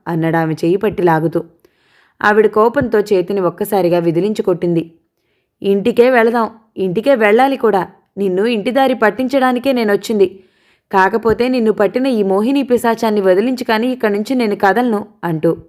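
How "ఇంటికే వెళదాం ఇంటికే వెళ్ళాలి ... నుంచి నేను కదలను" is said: angry. Acted. Furious mother confronts son.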